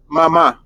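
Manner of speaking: "mama" with the final A accented, ma-MA; stress on last syllable. Shown as a demonstration. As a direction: punch the second syllable of "mama". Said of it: "put the accent on this A".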